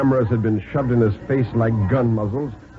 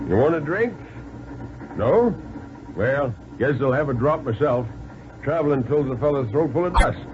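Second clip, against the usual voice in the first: deputy; 4 semitones higher, 3 dB quieter than usual. Acted. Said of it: "And Deputy Myers said".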